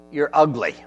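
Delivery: parrot voice. Retold or imitated. Parrot insulting a lady walking past the store, mock parrot voice. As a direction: tease her like a cheeky pet-store parrot. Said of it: "the parrot looked at her, and he said".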